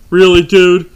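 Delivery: loud exasperated snark; snarky. Retold or imitated. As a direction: sneer it, fed up. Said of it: "get snarky".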